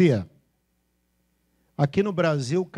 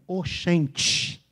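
Bahian accent. Shown as a demonstration. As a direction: imitate a baiano saying oxente. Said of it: "Como é que o baiano fala?".

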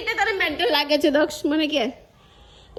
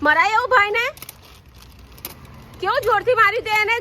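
higher-pitched reproach; indignant scolding; 6 semitones higher than usual. Real, not acted. Mother reproaching child for hitting brother, indignant scolding.

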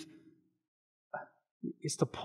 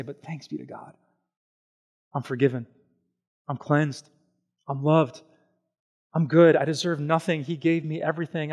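grateful prayer. Pretend. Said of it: "we can say".

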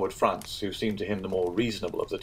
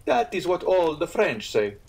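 mildly piqued, higher and slow; slow, put-out retort in a higher character voice; 9 semitones higher, 4 dB louder than usual. A narrator's reading. Innkeeper answering a French guest, somewhat piqued. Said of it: "somewhat piqued".

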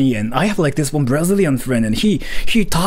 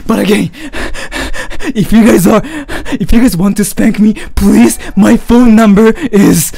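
laughing playful shout; 7 semitones higher, 7 dB louder than usual. Acted. Jokingly offers phone number.

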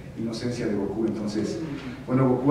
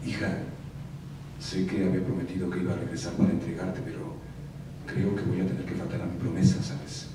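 Bruce Willis voice; 5 semitones lower, 4 dB quieter than usual. Retold or imitated. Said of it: "y le dice".

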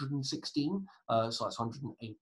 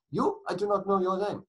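hammed-up German doorkeeper, louder; appalling German accent; 7 semitones higher, 5 dB louder than usual. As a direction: challenge them in a bad German accent. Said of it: "That was an appalling German accent".

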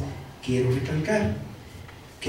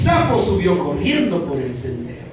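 flat reading. Shown as a demonstration. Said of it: "las primeras palabras así".

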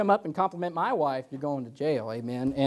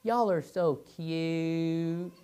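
cooing lady; 3 semitones higher, much slower than usual. Retold or imitated. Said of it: "she goes".

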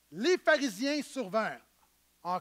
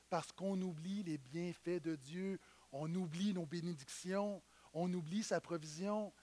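hushed; 5 semitones lower, 11 dB quieter than usual. Real, not acted. Pastor confessing to the church how we forget, hushed. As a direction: let it sink to a near-murmur.

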